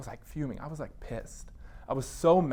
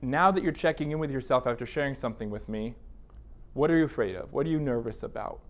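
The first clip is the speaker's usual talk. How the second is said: a therapist gently checking in after a heavy disclosure; gentle therapist check-in; 3 semitones lower than usual. Shown as a demonstration. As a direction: ask it gently, inviting the client to open up. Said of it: "creating a space to say".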